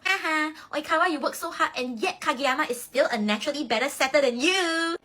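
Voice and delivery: high mocking teammate voice; teasing teammate. Teammate teasing the captain, high and mocking. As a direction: tease him with a laugh in your voice. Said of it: "Hanamaki will say something along the lines of".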